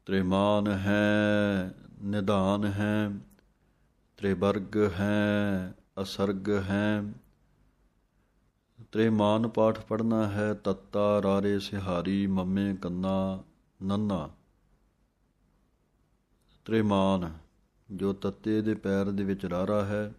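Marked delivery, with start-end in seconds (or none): 0.1-7.0 slow, measured Gurbani recitation. Shown as a demonstration. Teacher slowly recites scripture lines for students to copy. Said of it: "ਇਸ ਤਰ੍ਹਾਂ ਪੜ੍ਹਨਾ ਹੈ।". 16.7-17.3 ਤ੍ਰਿਮਾਨ with the ਰ and sihari joined quickly to ਤ; correct pronunciation. Shown as a demonstration. Teacher models ਤ੍ਰਿਮਾਨ for students with the sihari said quickly. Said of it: "ਸਿਹਾਰੀ ਰਾਰੇ ਨੂੰ ਲੱਗ ਕੇ ਤ੍ਰਿਮਾਨ ਪਾਠ ਬਣਨਾ ਹੈ".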